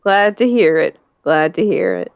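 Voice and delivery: lightly voiced old grandpa; a hint of a proud old man; grumpy old man. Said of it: "old man voice".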